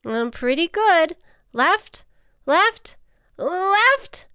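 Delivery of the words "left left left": high calls, mounting in urgency; mock-alarmed navigator; urgent steering. A narrator's reading. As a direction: call the turn, stretching the last one. Ant urgently steers the flight.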